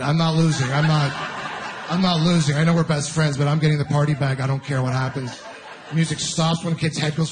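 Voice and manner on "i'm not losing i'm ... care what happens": put-on fierce kid resolve. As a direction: vow to win at any cost. Kid's inner voice in musical chairs.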